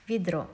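vidro with "i" in the first syllable; reduced vowel. Shown as a demonstration. Teacher repeating the spoken form, vidro with reduced E. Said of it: "but we pronounce".

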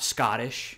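Scottish with the middle T sounded; T's pronounced. Shown as a demonstration. Host shows what to avoid, Scottish with its T sounded. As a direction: say Scottish the American way, T voiced. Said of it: "So instead of saying Scot".

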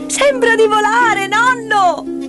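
put-on high, thrilled little-girl squeal; high-pitched joyful child's cry. A narrator's reading. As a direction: cry out in delight, as if flying. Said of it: "Heidi lanciava gridolini di gioia".

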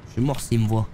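ordinary delivery

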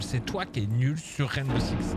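usual speaking voice

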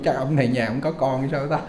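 amused teasing. Retold or imitated. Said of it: "bà mím mím cười cười".

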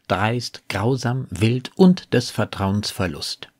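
measured verse reading, each listed word set apart; quoting poetry with careful emphasis; poem recitation. Acted. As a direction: recite the sonnet deliberately, line by line. Quotes the sonnet between commentary.

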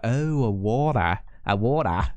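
put-on botched American accent, sounding Australian; drawn-out American "water" drifting Australian; attempted American accent. Imitating an American who finally understands, American accent slipping Australian. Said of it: "No, that sounded Australian".

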